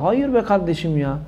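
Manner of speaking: drawn-out, hushed Hayır be kardeşim ya, almost pleading; quiet and slow. Shown as a demonstration. Preacher quietly and slowly rejects "God is up above" to viewers. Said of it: "repeated louder".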